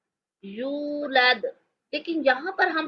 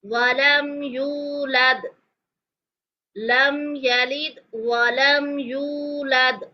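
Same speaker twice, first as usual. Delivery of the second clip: slow chant with echoing final द; slow Quranic recitation; much slower than usual. Shown as a demonstration. Teacher reciting with qalqalah for students. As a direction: recite slowly, letting the द rebound. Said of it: "यहाँ पर हम कलकला करेंगे".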